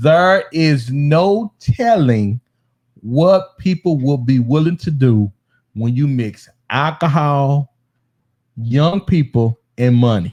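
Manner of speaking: slow, drawn-out, deliberate delivery, every word laid down. Looking into the camera for viewers, the speaker says it slowly. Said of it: "I'm going to say it slow".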